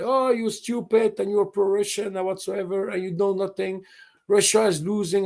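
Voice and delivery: mimicking dismissive relatives. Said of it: "my father or my brother".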